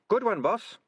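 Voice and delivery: high cheery rat voice; a cheeky rat admiring; Sardines voice. Acted.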